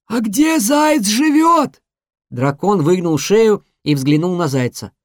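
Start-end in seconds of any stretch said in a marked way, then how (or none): 0.1-1.8 high, slow dragon voice; slow, drawn-out dragon. Acted.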